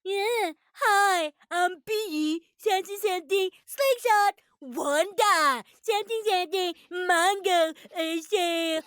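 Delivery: childish mock imitation of his words; mocking mimicry. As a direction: parrot him like a bratty kid. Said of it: "where she's mimicking him".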